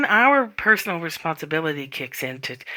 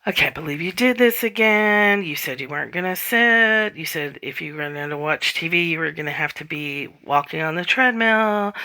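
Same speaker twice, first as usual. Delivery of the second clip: higher, exasperated self-scolding; scolding myself; 4 semitones higher than usual. Retold or imitated. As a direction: nag yourself like a fed-up inner critic. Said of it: "sit there and bitch at myself".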